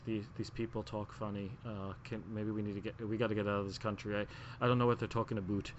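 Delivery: soft, confiding imitation of a whisper; mock whisper. Bret whispering in Diana's ear, mock hushed aside. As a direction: softly act out a secret aside. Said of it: "Bret was whispering in her ear".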